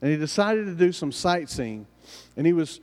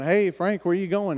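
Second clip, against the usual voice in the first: higher, lightly acted hail; calling out; 5 semitones higher than usual. Coworkers question Frank as he leaves, curious call.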